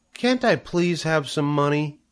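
put-on high little girl begging; child pleading. A narrator's reading. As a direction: wheedle like a small daughter. Child begs mother for money.

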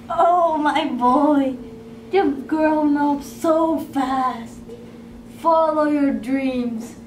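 slow, tender motherly farewell. Acted. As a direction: let him go gently, slowly.

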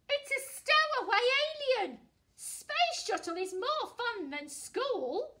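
very high, loud squeaky voice; squeaking. Acted. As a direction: squeak like a tiny alien. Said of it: "she squeaks".

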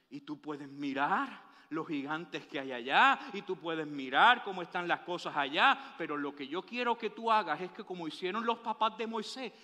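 voice of God. Acted. God speaking to Joshua voiced.

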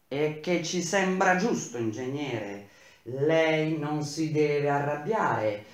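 halting, embarrassed big man; lightly voiced awkward worker; hesitant, placating the angry boss; awkward bass voice. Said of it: "con la voce di basso impacciata".

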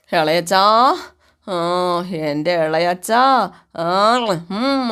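scared. Retold or imitated. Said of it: "ബീരാനൊന്ന് പേടിക്കുവാണേ".

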